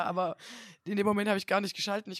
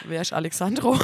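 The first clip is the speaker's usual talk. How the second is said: confused question; 5 dB louder than usual. Retold or imitated. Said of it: "Und ich war so".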